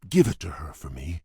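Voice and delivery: quick secret whisper. Acted. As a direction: hush it so Belle won't hear. Secretly handing over the book.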